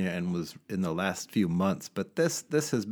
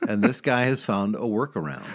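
laughing; 3 dB louder than usual. Real, not acted. Joking about home prices.

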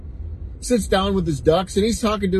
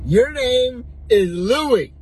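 slow triumphant guess; 6 semitones higher, 3 dB louder, much slower than usual. Acted. Bartender guesses third name.

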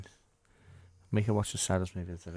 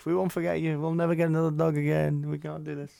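hammed-up tearful promise, higher and louder; mock grieving owner; 7 semitones higher, 4 dB louder than usual. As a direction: overplay the weepy family vow, pitched up. Voicing the grieving family.

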